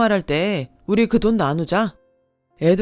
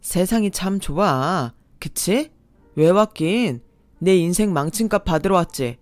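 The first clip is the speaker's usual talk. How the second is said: growing anger; 3 dB louder than usual. Acted. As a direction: sneer building to a loud accusing yell. Ex blames her, grows heated.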